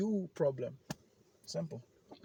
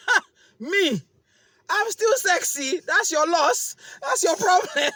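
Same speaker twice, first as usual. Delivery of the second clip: loud and high, cocky bragging; loud boastful hype; 14 dB louder than usual. Retold or imitated. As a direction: brag it out, full swagger. Boasting to the mirror.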